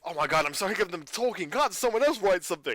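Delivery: mock fed-up complaint, pitch climbing toward the end; imitated exasperated whine; exasperated plea. Acts out being fed up.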